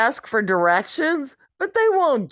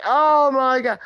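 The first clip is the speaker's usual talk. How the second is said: exasperated shout. Retold or imitated. Reacting to partner's excuse.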